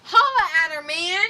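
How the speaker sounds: loud, high shout of encouragement; egging on. Acted. Sidekick shouting at hero to flirt. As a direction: yell at him to go for it.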